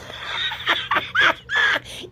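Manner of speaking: high airy cackle at a silly mistake; high breathy laugh. Real, not acted. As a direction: burst of high unvoiced laughter. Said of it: "laughs at own slip".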